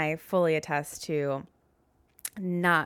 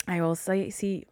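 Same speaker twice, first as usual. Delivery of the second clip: a touch of Southern accent; 2 semitones higher than usual. Real, not acted. Host signing off as her Southern accent slips out. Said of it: "my Southern accent came out".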